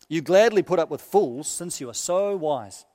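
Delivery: a light touch of sarcasm in a solemn reading; sarcastic. Acted. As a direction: let the irony sting without raising the voice. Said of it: "You can hear a bit of sarcasm there".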